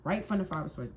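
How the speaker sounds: loud, punched outburst; emphatic exclaiming. Real, not acted. Tarot reader claiming each card, emphatic exclaiming. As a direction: pounce on the words loudly. Calling out cards as drawn.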